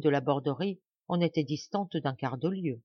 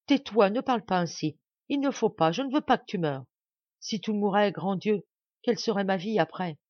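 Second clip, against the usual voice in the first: pleading; 3 semitones higher, 3 dB louder than usual. Acted. Friend begs the dying woman.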